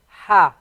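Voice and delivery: "Ha" breathed out with lots of airflow; airy ha. Shown as a demonstration. Teacher showing students the airy "Ha". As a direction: push air through the throat on "Ha". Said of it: "It's very airy".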